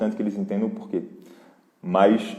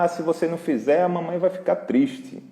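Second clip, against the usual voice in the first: mocking guilt-trip mom; 8 semitones higher than usual. Mother guilt-tripping her son, mock high sing-song. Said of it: "Não vai falar".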